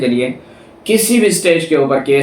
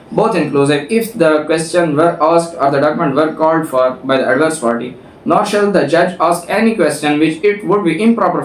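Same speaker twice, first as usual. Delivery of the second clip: slow, deliberate reading of legal text; reading the statute; much slower than usual. Shown as a demonstration. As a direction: read each clause out slowly, like a law book. Reads statute text aloud.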